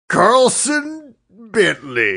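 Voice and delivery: cowboy name announced. Acted. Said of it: "the name of this cowboy character".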